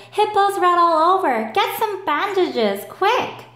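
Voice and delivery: high, loud alarmed plea; urgent call for bandages; panicked. Acted. Alligator panicking.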